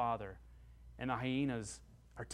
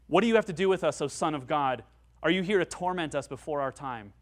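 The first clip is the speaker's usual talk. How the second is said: demons speaking; 6 dB louder than usual. Acted. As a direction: voice the demons in alarm. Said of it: "They see him and say".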